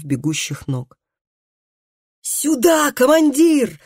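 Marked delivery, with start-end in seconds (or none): 2.2-3.8 high, loud rallying shout; shouting at full voice. A narrator's reading. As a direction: call out to an imaginary commander. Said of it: "крикнул Тарий во весь голос".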